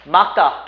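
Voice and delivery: 막다 said loudly as 막따; ㄱ reading. Shown as a demonstration. Teacher quizzing students with option two, 막다 clearly said as 막따. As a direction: drop the ㄹ, stop on ㄱ before tense 따. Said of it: "이 번".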